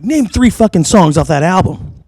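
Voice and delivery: mock challenge. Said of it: "And he goes, like".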